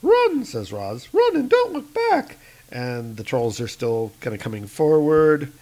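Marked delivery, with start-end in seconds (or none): 0.0-2.4 urgent shout. Acted. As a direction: yell at them to flee. Roz shouting warning.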